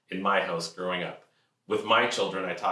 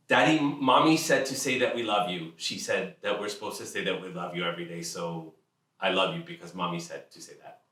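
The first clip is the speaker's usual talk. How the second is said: put-on little child. Three-year-old voiced in story.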